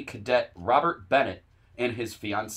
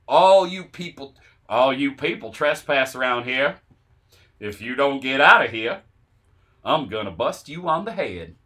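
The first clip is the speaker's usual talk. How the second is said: shouting at trespasser; 5 dB louder than usual. Acted. Reading quoted threat.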